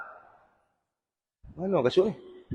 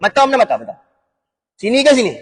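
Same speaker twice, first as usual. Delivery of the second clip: mock-angry driver, pitched up; road rage; 4 semitones higher than usual. Driver rounds on whoever hit the car from behind, angry. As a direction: tell off a careless driver with raised pitch. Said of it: "Senyum ke nak marah?".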